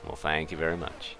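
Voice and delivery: lightly voiced singer impression. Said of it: "That was more like the singer there".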